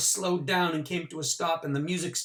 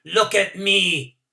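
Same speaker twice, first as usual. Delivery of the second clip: loud, slow, high cry; slow, high, loud call; proud shout; 5 semitones higher, 9 dB louder, slower than usual. A narrator's reading. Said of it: "as if shouting to the horses".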